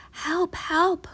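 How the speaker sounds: frightened high whisper. Acted. Boy whispering for help under his blankets, scared. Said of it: "Griffin whispered inside".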